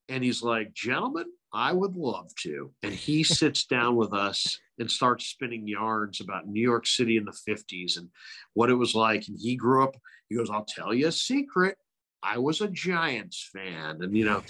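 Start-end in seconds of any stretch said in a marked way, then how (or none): 0.7-2.7 lightly voiced old broadcaster, gracious; a hint of a gentle old announcer; Vin Scully voice. Imitating the legend accepting politely. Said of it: "all in this Vin voice". 10.5-14.0 a hint of Scully sharing a secret; Vin Scully voice. Retelling Scully confessing to young hosts, lightly voiced. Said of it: "all in this Vin voice".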